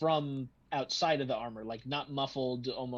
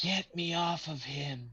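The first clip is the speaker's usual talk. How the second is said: thin, wispy, spectral ghost voice; 3 semitones higher than usual. Speaker making fun of the ghost's plea, in a wispy voice. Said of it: "in this wispy voice".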